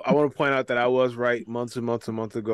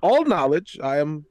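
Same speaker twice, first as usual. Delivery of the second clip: pompous aristocrat, lightly voiced; a self-important noble introducing himself; posh noble character; 4 semitones higher than usual. Plays a stuffy noble character.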